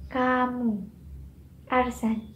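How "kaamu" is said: "kamu" with a drawn-out first vowel, falling; lengthened vowel. Shown as a demonstration. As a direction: stretch it to "kaamu". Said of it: "Length in Indonesian language".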